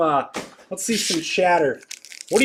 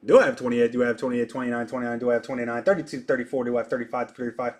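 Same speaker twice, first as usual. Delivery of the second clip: rapid-fire bid calling; auctioneer; 5 semitones lower, 3 dB quieter, much faster than usual. Pretend. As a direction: call the bids like an auctioneer. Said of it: "I feel like an auctioneer".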